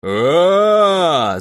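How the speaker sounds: loud drawn-out war cry; battle yell. A narrator's reading. Crow the gnome charging the shed, loud war yell. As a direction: roar as you charge. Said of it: "завопил Кроу".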